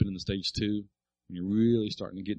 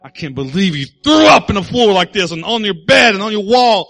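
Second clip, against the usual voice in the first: angry parent scolding; 13 semitones higher, 19 dB louder than usual. Pretend. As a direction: scold the child harder and harder. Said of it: "I said".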